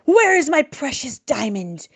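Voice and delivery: furious accusation at his advisor; angry shout. Acted. Governor accusing his advisor, angry shout. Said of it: "he shouted".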